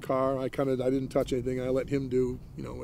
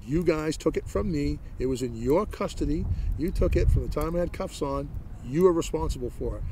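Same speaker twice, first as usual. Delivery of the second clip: a touch of anger, a bit louder; retold protest; 3 semitones higher, 4 dB louder than usual. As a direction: replay the complaint with mild heat. Retelling his protest to police.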